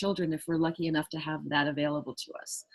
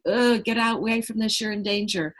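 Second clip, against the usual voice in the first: louder and higher urgent alarm, mock brain voice; alarmed warning; 3 semitones higher, 6 dB louder than usual. The amygdala urging you to flee, loud alarm. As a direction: sound the alarm to flee now. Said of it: "it's saying".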